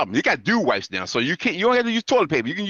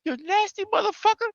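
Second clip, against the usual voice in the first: mock angry rant; 13 semitones higher than usual. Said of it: "looking madder and madder as I say".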